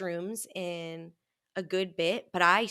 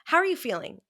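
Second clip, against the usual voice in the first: higher, louder gentle therapist question; 9 semitones higher, 5 dB louder, faster than usual. Retold or imitated. Mimicking her therapist to a friend, higher gentle question. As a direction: ask kindly like a therapist. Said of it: "she's like".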